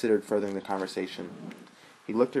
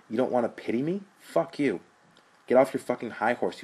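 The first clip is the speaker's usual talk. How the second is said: angry retort; 4 semitones higher, 5 dB louder than usual. Acted. Brothers' heated quarrel.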